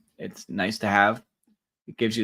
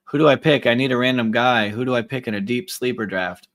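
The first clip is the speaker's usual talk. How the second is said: frantic drafter; 3 semitones higher, 6 dB louder than usual. Pretend. Acts out a viewer asking for help.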